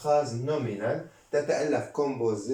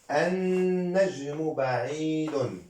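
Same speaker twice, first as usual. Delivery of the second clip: very slow, drawn-out syllables; slow read-along; 2 semitones higher, much slower than usual. Shown as a demonstration. Teacher reads along with the students, very slowly. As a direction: stretch every sound for learners to follow. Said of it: "نقرأ. Je lis avec vous".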